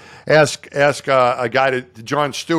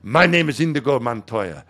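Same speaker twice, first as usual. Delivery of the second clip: Indigo Montoya; 3 semitones lower than usual. Retold or imitated. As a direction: imitate a solemn vow of revenge, drawing out the end. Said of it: "gets, like, gets into the car".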